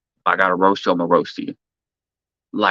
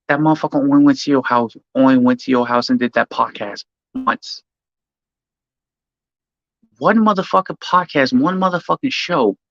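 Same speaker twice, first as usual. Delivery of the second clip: getting worked up about one podcast; exasperated ranting; heated rant; 4 semitones higher than usual. Real, not acted. Ranting about podcast host's loyalty.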